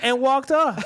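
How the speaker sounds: words breaking into laughter; laughing. Real, not acted. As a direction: laugh through the punchline. Laughing while telling.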